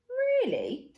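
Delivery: high, loud incredulous question; man amazed, high pitched; surprised really. A narrator's reading. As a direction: let disbelief lift it high. Man surprised Plop dislikes dark.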